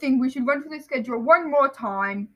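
pompous uncle giving orders; Uncle Vernon. Acted. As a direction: announce the plan self-importantly. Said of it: "that's Vernon".

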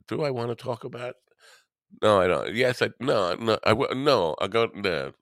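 waffling back and forth; indecisive. Shown as a demonstration. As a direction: dither between yes and no. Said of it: "what indecisiveness looks like".

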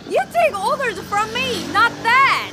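loud, high and indignant; angry command. Acted. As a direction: put him in his place. Asserting authority over brother.

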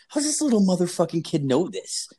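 high-pitched, incredulous retold reaction; baffled disbelief. Babysitter marvels at the kid's gaming skill, incredulous. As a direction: act out being freaked out by a prodigy.

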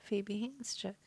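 congested, stuffy nose; blocked nose. Real, not acted. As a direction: talk through a blocked nose. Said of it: "I'm congested".

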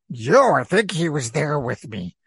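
airy, spooky ghost voice. Acted. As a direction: speak like a friendly ghost. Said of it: "that was the ghost voice".

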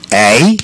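quoted "Eh?" as a Canadian tag question; "Eh?" as if seeking agreement; imitated Canadian "eh". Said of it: "he says a lot".

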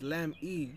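slow "Lem E" with the E set apart; stressing the E. Shown as a demonstration. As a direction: separate LEM from a long E, no T. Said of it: "it's E, not T".

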